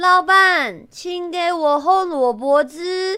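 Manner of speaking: put-on loud, clumsy, foreign-accented Mandarin. Telling a joke, voicing a foreigner speaking to a stall owner in awkward foreign-accented mandarin. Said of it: "他用很深色的国语跟老板说".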